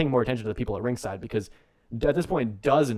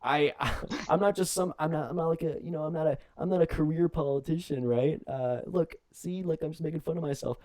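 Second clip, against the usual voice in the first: mock Kane pleading for votes; 4 semitones higher than usual. Kane voiced as begging mayor.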